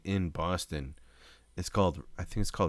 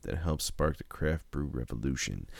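commercial voice; 3 semitones lower than usual. Acted. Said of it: "you did the Boston".

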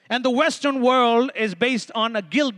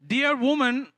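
measured, polite address; a touch of mock diplomacy; diplomatic; slower than usual. Jesus addressing his mother in paraphrase, diplomatic. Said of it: "a little more diplomatic version".

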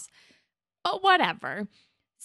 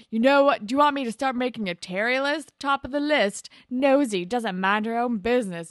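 raised, louder mock-combative voice; retold combative retort; 4 semitones higher, 6 dB louder than usual. Boy threatens Terry with a list of her own, combative. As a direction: imitate him turning on her.

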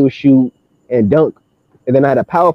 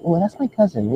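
softly spoken, light feminine imitation; put-on female voice; 9 dB quieter than usual. Answering a stranger as the cousin, softly put-on female voice. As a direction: drop the volume to pass as a woman. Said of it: "kinda like a female voice".

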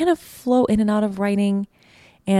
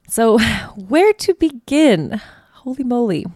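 emotional pause; 5 semitones higher than usual. Real, not acted. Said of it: "how about a deep breath".

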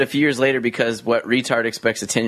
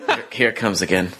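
mock dread, rising into a laughing groan; weary parrot; 4 semitones lower than usual. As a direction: play the parrot dreading another round. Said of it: "that parrot was just like".

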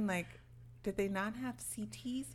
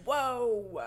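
surprised; 4 semitones higher, 7 dB louder than usual. Retold or imitated. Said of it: "And I'm like".

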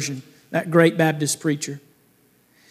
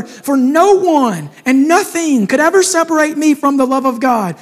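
rising fervour; 4 semitones higher than usual. Acted. Preaching Spurgeon's testimony climax.

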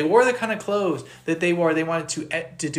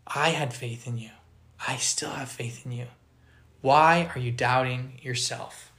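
tender reassurance; 3 semitones lower, 3 dB quieter than usual. Acted. Jesus gently telling Peter he believes in him, soft.

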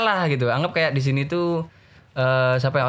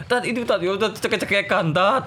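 higher-pitched panicky report; acted tearful alarm; imitated distressed boy; 6 semitones higher than usual. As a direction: plead urgently as a frightened student. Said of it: "nangis sesek tuh".

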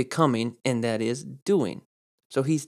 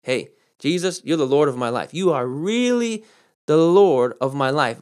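flattering. Retold or imitated. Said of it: "flattering the Lord with their lips".

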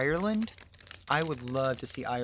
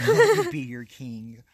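loud proclamation; 12 semitones higher, 9 dB louder than usual. Pretend. Playful royal proclamation.

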